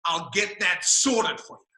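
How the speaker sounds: slow, drawn-out Aussie reply; broad Australian accent. Retold or imitated. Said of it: "he spoke with a very broad Australian accent".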